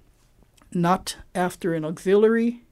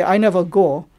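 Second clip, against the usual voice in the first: Pidgin example; 7 dB louder than usual. Shown as a demonstration. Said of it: "So if I say".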